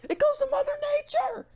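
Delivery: high, loud mock announcement; hammed-up accusing cry; mock outraged shout. Host shouting at Mother Nature on the podcast, mock outrage.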